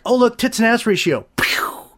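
whispered mock sales pitch; mock filmmakers whisper. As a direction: hiss it like a sleazy secret. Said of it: "So they like".

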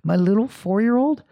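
high-pitched incredulous outburst; re-enacted dad's shock, breaking into laughter; losing his mind. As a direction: exclaim in disbelieving exasperation. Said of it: "I'm losing my mind".

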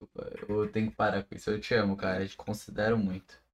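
quiet, sincere making-up; soft apology. Real, not acted. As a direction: say it softly, meaning it. Apologizing to friend after insult.

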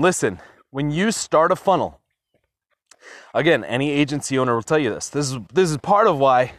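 winded from walking fast; breathless, talking while walking; out of breath. Real, not acted. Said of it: "I'm out of breath".

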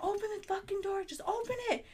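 high, urgent yelling; frantic yell. Retold or imitated. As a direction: shout it through the door in a panic. Friend yelling through locked door.

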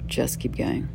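whispered quote, voiceless. Retold or imitated. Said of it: "Like Churchill said".

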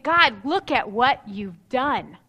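slow, tender thanks to God; slow and thankful, savouring the words; grateful prayer. Pretend. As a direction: linger on each word in gratitude. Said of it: "Look at your life and saying".

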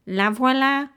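lightly voiced dwarf; a hint of a dwarf. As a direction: announce it proudly as the dwarf. Dwarf answers.

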